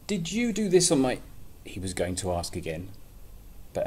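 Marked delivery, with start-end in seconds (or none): 0.1-1.2 high, loud little mole. Acted. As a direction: ask it squeakily. Mole asks, interrupted.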